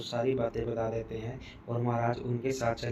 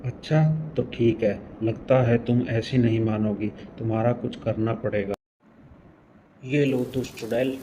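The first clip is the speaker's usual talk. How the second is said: loud, forceful threat; loud challenge; 7 dB louder than usual. Acted. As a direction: shout the attack at the witch. Healer attacks the witch.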